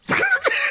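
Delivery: short high imitated swerving sound; car noise. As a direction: mimic the car veering off. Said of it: "it just goes".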